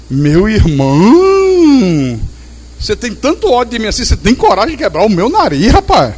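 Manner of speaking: teasing, amused reproach; mock hurt, said through a laugh; laughing gentle rebuke. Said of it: "Mas rindo".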